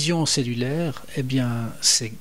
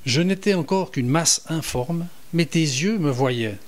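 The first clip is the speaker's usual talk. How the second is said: psalm reading; 2 semitones higher than usual. Shown as a demonstration. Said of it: "Je vous en lis quelques extraits".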